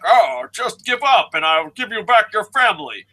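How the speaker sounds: hammed-up vague European villain accent; bad European accent. Villains taunting Reigns in a bad European accent. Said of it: "bad European accents being like".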